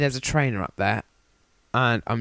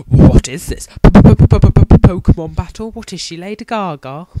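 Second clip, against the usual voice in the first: mock incredulous; 4 semitones higher, 10 dB louder, slower than usual. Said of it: "I'm just like".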